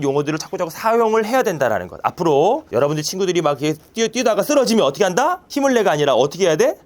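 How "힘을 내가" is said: mock cheer. Quoting the cheer.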